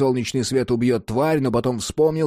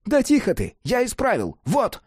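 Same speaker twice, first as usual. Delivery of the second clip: high, impatient retort; testy Cat; 10 semitones higher than usual. A narrator's reading. Cat tells Jack it is fixed, testy. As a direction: hush him testily in a high voice. Cat testily announces repair.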